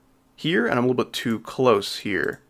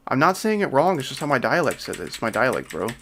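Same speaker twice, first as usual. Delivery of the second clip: mock defensive. Streamer mimicking people justifying their pronunciation, mock defensive. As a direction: imitate someone making excuses for themselves. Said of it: "justify why they pronounce something differently".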